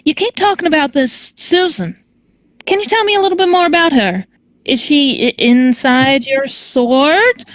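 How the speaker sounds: character accent, second attempt, pitched a little up; Charlize. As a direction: put on the character's proper accent, asking gently. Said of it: "that's not the correct accent for Charlize".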